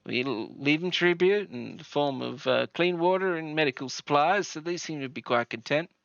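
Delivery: put-on in-character local with a Southern accent; hint of a Southern accent. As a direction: play a welcoming settler with a light Southern accent. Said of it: "That's a, that's a convincing Southern accent".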